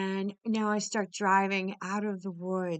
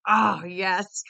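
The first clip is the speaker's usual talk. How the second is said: loud thrilled oh yes; excited oh yes; 8 dB louder than usual. Retold or imitated. Runner greeting the thunderstorm, loud and thrilled. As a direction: cheer it like the storm just arrived. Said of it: "I'm like".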